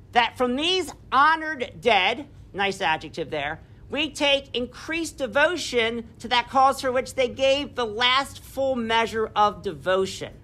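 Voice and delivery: measured speech read aloud; lightly declaimed speech; oratorical reading. Acted. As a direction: read it like a solemn address. Reads Gettysburg Address aloud.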